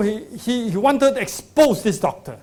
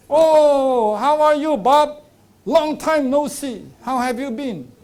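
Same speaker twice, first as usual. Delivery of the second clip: cheerful doctor greeting; 7 semitones higher, 5 dB louder, slower than usual. Retold or imitated. Doctor greets patient warmly.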